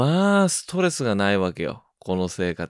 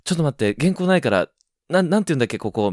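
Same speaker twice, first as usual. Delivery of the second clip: flustered; 5 semitones higher, faster than usual. Retold or imitated. Dream panic, asking for script.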